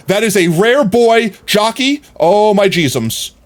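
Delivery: high, slow, loud gasp of wonder; awed excitement. Real, not acted. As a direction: savour every word in amazement. Marvels at rare boy jockey.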